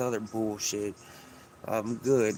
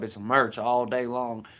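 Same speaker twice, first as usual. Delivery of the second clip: slow catchphrase; slower than usual. Pretend. Vlogger hyping his catchphrase to viewers, slow and drawn out. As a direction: stretch out It's merch all day long.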